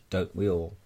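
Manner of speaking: ordinary talk, nothing marked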